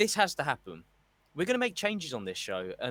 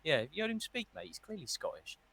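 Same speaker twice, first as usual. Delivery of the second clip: mock backtracking; 3 semitones higher than usual. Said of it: "top Brit".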